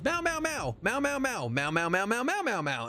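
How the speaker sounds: high, rapid string of mock meows; playful high cat impression; imitating a cat. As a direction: chatter like an excited cat telling everything. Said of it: "she goes".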